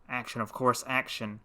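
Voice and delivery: soft low murmur. A narrator's reading. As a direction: murmur it among yourselves. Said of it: "murmured all the frogs".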